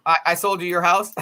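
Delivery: laughing in disbelief, voice lifting; surprised laugh. Real, not acted. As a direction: catch yourself in happy surprise. Realizes she sold their house.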